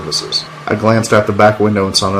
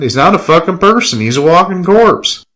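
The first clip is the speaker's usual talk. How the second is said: higher-pitched, scornful outburst; angry insult; 9 semitones higher than usual. Acted. Killian sneering about the brother, angry. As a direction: throw it out as an angry jab.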